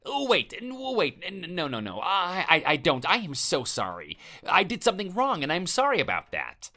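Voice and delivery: high, stumbling, frightened begging; panicked stammering plea. Acted. Neighbour begs the angry husband not to hit again, panicked. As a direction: scramble for words to stop the next punch.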